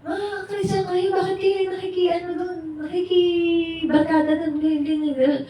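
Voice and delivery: high, mock-angry scolding, lightly voiced grandma. Grandma scolding the Christian kids for hanging out with the barkada, mock-angry and high. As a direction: nag them like a fed-up lola. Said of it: "Sabi niya".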